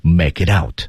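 "out" with a full, drawn-out diphthong. Shown as a demonstration. Teacher models vowels for dubbing students, full diphthong in "out". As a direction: slowly round out the vowel in "out". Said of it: "这个双元音就非常饱满".

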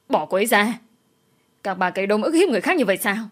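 a touch of anger, quick; angry command. Acted. Duy Anh telling the women to release Vi, mild angry. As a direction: order them off her. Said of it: "Anh giận dữ".

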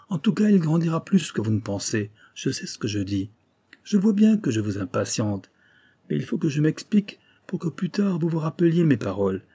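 lightly acted indignant Japanese doctor; wounded proud doctor. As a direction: argue back with wounded pride. Kasuga protests the disdain.

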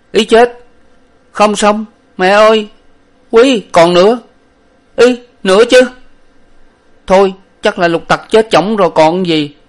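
high, loud, whimpering comic wail; a frightened servant blubbering that his master is dead. A narrator's reading. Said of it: "Lục Tặc khóc mếu máo".

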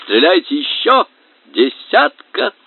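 high, eager cartoonish cheering; excited plywood target.

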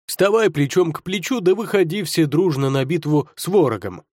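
heads talking over each other; many-headed hydra. Acted. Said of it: "все три головы змея Горыныча и заговорили наперебой".

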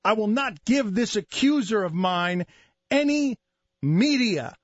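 mock-grave orator protesting innocence; mock indignant denial. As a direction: imitate a solemn denial, punching phrases between pauses.

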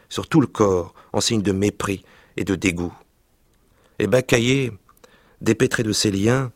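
lively reading aloud of a French novel; story reading. Acted. Reading a childhood novel aloud to the interviewer, expressive narration. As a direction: read the scene with vivid expression.

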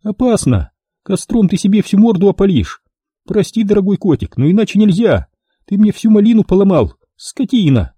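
a lightly voiced scheming woman; voiced female client. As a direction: play a calculating client doubting the deal. Woman turns on him.

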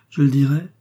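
exclaimed high and loud, put-on fervour; Milady crying out in false religious rapture; feigned exaltation. A narrator's reading. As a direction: play the martyr's zeal, fully staged. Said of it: "s'écria Milady avec une exaltation feinte".

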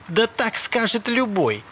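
high, drawn-out protest; strained high exclamation; heated retort. A narrator's reading. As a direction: cry it back, stretching the words. Acted quarrel, Malcolm shouts back.

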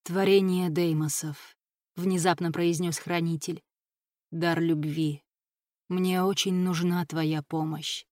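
slow, solemn message; measured ritual appeal, gravely spoken. A narrator's reading. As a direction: deliver it slowly and with ceremony. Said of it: "В послании Рая было столько торжественности".

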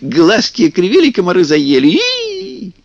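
yell, then slowly scold the pests; shouting Kuzka. A narrator's reading. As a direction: Kuzka shouting at teasing kikimoras, then slow. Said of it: "закричал на них Кузька".

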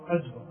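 "أكبر" said quickly as ajbar; kaf turned to jeem. Shown as a demonstration. Teacher naming the mistake, "أكبر" as ajbar. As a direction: swap the k of "أكبر" for a j. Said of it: "هذا خطأ".

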